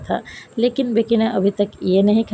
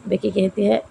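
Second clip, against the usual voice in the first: ordinary delivery, nothing marked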